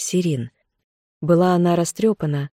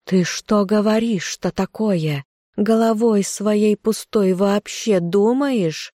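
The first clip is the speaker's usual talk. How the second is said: hissing cat; 4 semitones higher, slower than usual. Acted. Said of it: "Котофей зашипел".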